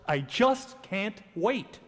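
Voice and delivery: slow, relishing eagerness with weight on "just"; joyful anticipation. Shown as a demonstration. Preacher showing the congregation the tone of joy, eager anticipation. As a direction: draw out "just can't wait" with glad expectancy. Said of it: "it's joy if we say the following in this tone of voice".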